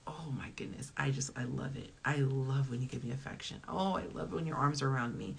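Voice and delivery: soft loving praise, starting near a whisper; affectionate gushing. Acted. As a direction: melt softly into praise for your partner. Acted loving praise to partner.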